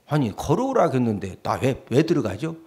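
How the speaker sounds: ordinary talk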